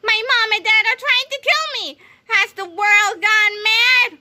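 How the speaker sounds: high, slow hysterical wail; panicked cry. A narrator's reading. Krupp begging the boys for help, high hysterical wail. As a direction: wail in disbelief. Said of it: "he cried".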